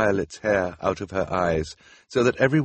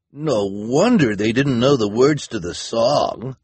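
loud, higher character voice; cried out; 4 semitones higher, 8 dB louder than usual. A narrator's reading. Volunteer realizing the children were phony, crying out. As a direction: cry it out in realization. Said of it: "a volunteer cried".

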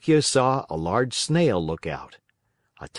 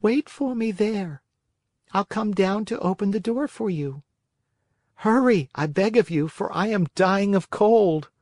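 high, unhurried snail voice; 10 semitones higher than usual. Acted. Snail speaks; Pinocchio pleads after.

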